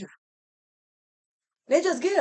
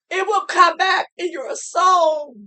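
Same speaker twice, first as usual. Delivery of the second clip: with a real catch of crying on "soul"; a touch of real crying; tearful; 3 semitones higher than usual. Real, not acted. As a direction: let the tears break through. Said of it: "I'm gonna get emotional like this".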